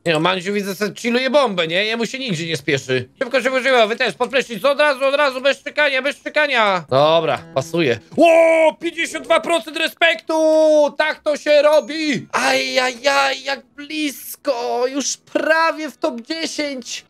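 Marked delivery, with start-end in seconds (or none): 3.2-6.9 higher, brisk commanding hurry; raised-pitch mock commands; bossy guard orders. Ordering prisoners to shower. 8.2-17.0 higher, stretched excited exclaims; excited cheer. Real, not acted. Celebrating respect score.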